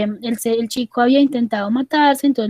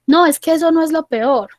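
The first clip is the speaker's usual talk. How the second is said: higher-pitched, acted protest; insistent objection; 4 semitones higher than usual. Patient rejects the psychologist's consolation, insistent. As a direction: push back as the unconvinced patient.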